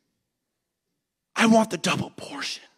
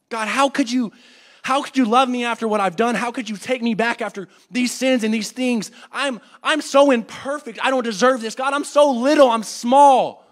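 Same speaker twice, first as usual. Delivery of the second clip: loud, anguished plea to God; pleading prayer; 2 semitones higher, 6 dB louder than usual. Retold or imitated. Preacher voicing his own prayer to God, loud anguished plea. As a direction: cry out your unworthiness to God.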